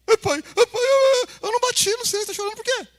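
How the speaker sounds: put-on high, loud crying child's voice; whining child. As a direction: wail like a kid about to be spanked. Filho chorando ao apanhar. (voz de criança chorosa, aguda e alta)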